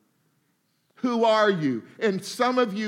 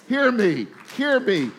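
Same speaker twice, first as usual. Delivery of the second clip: urgent appeal; 3 semitones higher, 4 dB louder than usual. Real, not acted. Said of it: "preacher calling out".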